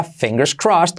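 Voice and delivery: quick natural fingers crossed; normal speed. Shown as a demonstration. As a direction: say it at native pace. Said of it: "La versión abreviada". (versión rápida y natural)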